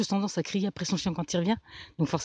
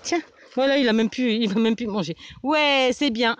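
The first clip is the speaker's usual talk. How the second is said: praising a dog; 4 semitones higher, 5 dB louder than usual. Real, not acted. Rewarding the dog with treat.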